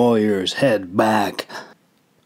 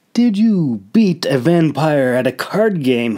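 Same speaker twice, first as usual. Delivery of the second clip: high, scornful sneer of a question; mock the prisoner's boast; scoffing; 5 semitones higher, 3 dB louder than usual. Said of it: "he scoffed".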